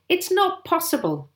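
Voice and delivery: high-pitched exclamation of disbelief; excited cry. A narrator's reading. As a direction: cry out in amazement. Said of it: "he cried".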